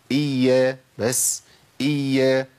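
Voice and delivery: "إيا" with the ya held just long enough; measured doubled ya. Shown as a demonstration. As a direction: hold the double ya in "إيا", then stop. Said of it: "ما تزيدش عن كده".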